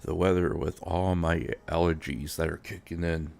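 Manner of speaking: congested stuffy nose voice; blocked nose. Real, not acted. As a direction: talk through a blocked nose. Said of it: "excuse me if I do sound, uh, congested".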